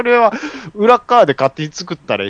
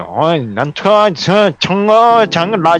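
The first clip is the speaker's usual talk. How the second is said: fake Korean; 4 semitones higher than usual. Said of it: "なんちゃって韓国語で".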